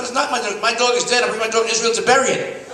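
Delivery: put-on high, loud old lady's outraged complaint; old lady wailing. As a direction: crank up the old woman's indignation. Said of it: "she's not".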